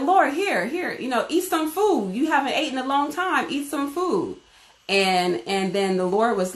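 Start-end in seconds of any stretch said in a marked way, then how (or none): 0.0-4.4 coaxing disciples. Retold or imitated. Disciples urging Jesus to eat.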